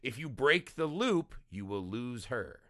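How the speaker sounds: a hint of an ominous voice in the head; Cole's inner voice. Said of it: "maybe that was Cole's inner voice".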